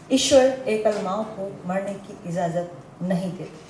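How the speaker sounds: measured verse reading with deliberate pauses; poem recitation. Real, not acted. Single mother recites her poem on lone motherhood, measured recitation. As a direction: recite line by line, settling at each ending.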